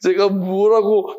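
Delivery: slow, sheepish reply to God; a lightly voiced, abashed Job caught out; meek humble Job. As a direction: shrink small before God. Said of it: "욥이 주님께 대답합니다".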